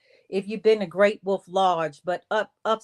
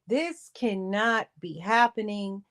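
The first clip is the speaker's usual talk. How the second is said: in shock; 6 semitones higher than usual. Retold or imitated. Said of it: "I'm still in shock".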